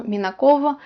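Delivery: final V softened toward a short F; male surname form. Shown as a demonstration. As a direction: say Minakov with a slight, short F ending. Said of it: "uh, the male form".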